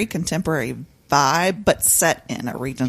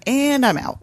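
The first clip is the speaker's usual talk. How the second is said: exasperated quip; 8 semitones higher, 4 dB louder than usual. Retold or imitated. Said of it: "she was like".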